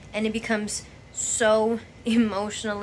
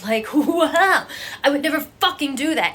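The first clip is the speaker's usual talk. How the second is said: louder, higher, laughing disbelief; incredulous laugh; 5 semitones higher, 7 dB louder than usual. Real, not acted. Scoffing at the thought of complaining like that, laughing.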